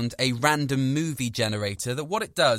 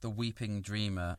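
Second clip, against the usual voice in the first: soft, hushed "The Weeping Dreamer"; hushed echo; 4 semitones lower, 10 dB quieter than usual. Shown as a demonstration. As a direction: breathe "The Weeping Dreamer" quietly in awe. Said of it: "that's got a sort of poetic".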